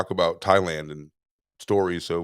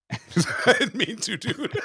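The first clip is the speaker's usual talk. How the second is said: squeaky high mock plea from the scared son; 13 semitones higher than usual. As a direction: pipe it up high, pretending to be the frightened boy.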